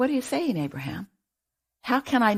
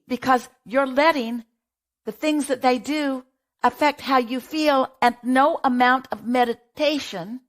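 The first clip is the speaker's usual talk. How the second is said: higher, insistent run of reasons; emphatic listing; 4 semitones higher than usual. Real, not acted. Advisor tells the parent why meditation fails, insistently. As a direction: pile up each reason with mounting insistence. Answers own question, piling up reasons.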